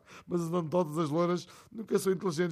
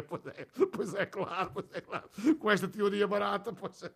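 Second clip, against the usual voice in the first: a rir baixinho; 3 semitones higher, 4 dB quieter than usual. Real, not acted. Locutor ri da anedota.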